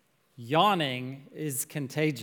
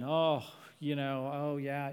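bored shrug; 2 semitones lower, 5 dB quieter than usual. Retold or imitated. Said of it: "We yawn at sin".

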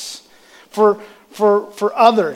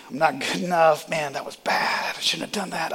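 self-critical inner voice; 7 dB quieter than usual. Acted. Preacher voicing negative thoughts to the congregation, quiet self-reproach. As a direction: think it to yourself, quietly beating yourself up.

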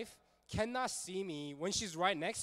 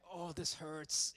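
slow, mildly whimpered imitation of pain; retold tearful complaint, lightly acted; mock crying; slower than usual. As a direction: draw out a half-hearted pained whine. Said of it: "she came out crying".

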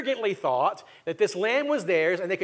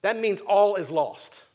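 slow, heavy voicing of the worried elders; a hint of elders fearing the worst; elders' despairing wondering; slower than usual. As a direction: mull it over slowly as if all hope is gone. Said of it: "They are wondering".

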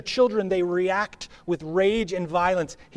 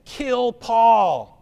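higher and louder cry from the mob; mock crowd yell; 4 semitones higher, 6 dB louder than usual. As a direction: shout it like an angry rioter, half in fun. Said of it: "What are they saying?".

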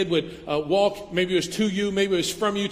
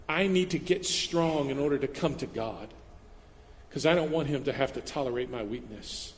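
mock inner voice; 4 semitones lower, 5 dB quieter than usual. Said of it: "Some of you think".

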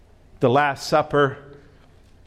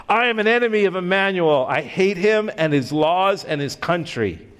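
screeching; 4 semitones higher than usual. Acted. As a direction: shout it out like a monster taking flight. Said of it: "rose up and screeched".

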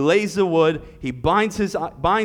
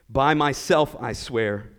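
solemn oath; 3 semitones lower, slower than usual. Acted. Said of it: "with the utmost seriousness and certainty".

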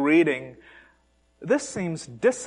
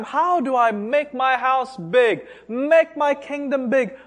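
scheming rich man; 5 semitones higher than usual. Acted. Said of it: "he's plotting all the time".

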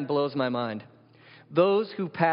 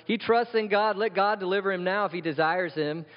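raised, emphatic quoted taunt; mocking; 5 semitones higher, 4 dB louder than usual. Chief priests mocking Jesus on the cross, raised taunting voice. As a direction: throw it at him, higher and louder. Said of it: "Mocked him".

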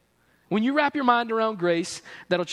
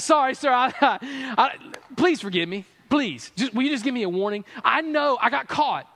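hammed-up pleading with a nervous laugh; sheepish mock plea to the police officer; mock begging for mercy; 4 semitones higher than usual. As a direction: beg the officer for a warning, half joking. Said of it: "I start begging for mercy".

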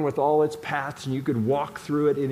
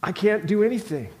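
higher, pleading thief crying out for mercy; a dying thief's raw cry for mercy, pitched up; desperate crying plea; 5 semitones higher than usual. Acted. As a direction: beg like a nailed man with nothing left to give. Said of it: "the thief is crying out".

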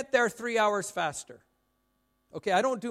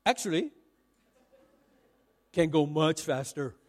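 mock Malaysian English; 6 semitones lower than usual. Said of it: "in Malaysia you have to start every sentence with 'actually.'".

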